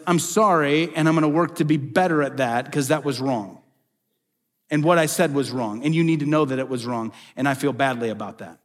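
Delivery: mean every word of the sorry; a heartfelt apology owning the wrong; sincere apology. Retold or imitated. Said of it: "but it's".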